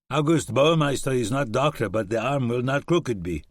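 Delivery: a hint of a German soldier; German accent. German reassuring Webb about his arm, light German accent. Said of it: "a German accent".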